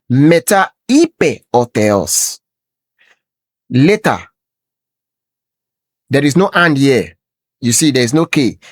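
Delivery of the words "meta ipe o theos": Meta ipe o theos read slowly, word by word; slow teaching read of Meta ipe o theos; Greek reading. Shown as a demonstration. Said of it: "let's read it straight".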